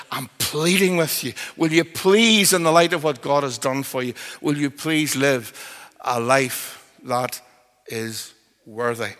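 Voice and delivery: acted earnest appeal, slowing to a solemn close; a measured, emphatic entreaty; passionate pleading. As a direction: plead firmly, then slow right down. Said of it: "And he says passionately".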